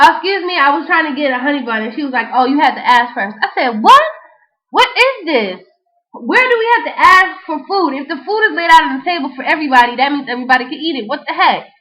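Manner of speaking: retold indignant protest. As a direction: protest like you've been wronged at church. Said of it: "I'm getting agitated".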